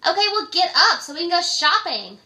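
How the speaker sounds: bright nagging caller who woke you; high loud caller voice. Retold or imitated. Friend calling midday, pestering in a high loud voice. Caller demands going shopping.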